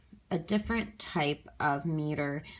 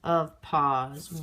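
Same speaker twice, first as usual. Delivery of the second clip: slow, measured "to neighborhoods of pause"; syllable by syllable; much slower than usual. Shown as a demonstration. Teacher counting the syllables aloud, slow and separated. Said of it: "I've counted the syllables".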